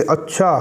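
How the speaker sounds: understated, lightly lifted "अच्छा"; one meaning of अच्छा. Shown as a demonstration. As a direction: acknowledge with a mild "अच्छा". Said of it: "लेकिन sound क्या है वो जरूरी है".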